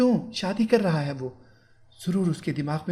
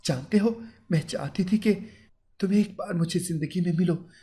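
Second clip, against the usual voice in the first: higher, threatening bride, restrained; mild menace, voice pitched up; angry bride; 6 semitones higher than usual. Acted. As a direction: bride threatening her groom, restrained anger. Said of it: "वो गुस्से में बोली".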